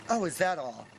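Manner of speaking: offhand, unbothered reply; casual. Retold or imitated. Sales lady calmly answering the panicked man, casual. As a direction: shrug it off like it happens daily. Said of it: "She says it so casual".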